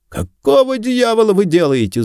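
very high-pitched strained protest; outraged cry. A narrator's reading. Suspect forced to his knees protests, high-pitched cry. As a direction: cry out high at your captors. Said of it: "закричал Стиллуотер".

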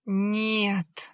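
usual speaking voice

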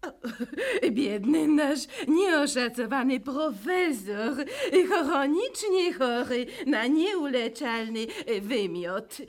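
mock sympathy with laughter; laughing while speaking. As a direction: giggle through the pity. Laughing through gossip.

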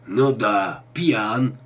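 put-on drawn-out, defiant drunk; drunken yelling. A narrator's reading. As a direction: play a mildly hollered drunken admission. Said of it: "вопил Клинк".

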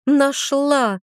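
triumphant little shout; happy exclamation. A narrator's reading. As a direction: found it and is delighted. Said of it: "воскликнула обрадованно".

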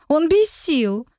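high, slow squeaky fairy plea; drawn-out squeak, fairy voice. Acted. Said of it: "пропищала фея".

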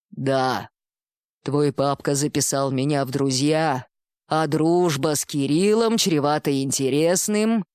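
low, unhurried bull-man, lightly voiced; a hint of a calm minotaur. Minotaur speaks to Dima.

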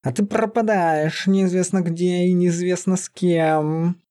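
drawn-out angry growl; still angry. A narrator's reading. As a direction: scold her in a beast voice. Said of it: "Всё ещё злясь".

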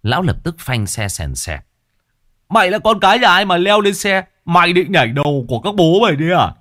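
high, loud furious shout; angry yelling. A narrator's reading. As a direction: bark at the boy on the cart. Old man yells at stowaway. (lão quát thằng nhảy lên xe)

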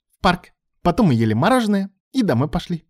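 put-on high, light child listing; little girl's voice. A narrator's reading. Young daughter telling her father about her day. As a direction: chirp it like a small child. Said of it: "перечисляла девочка".

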